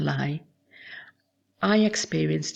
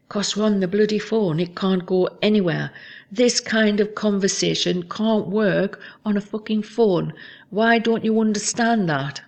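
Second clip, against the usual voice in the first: retold angry outburst; 3 semitones higher, 3 dB louder than usual. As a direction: replay his frustrated telling-off. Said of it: "He talks over me".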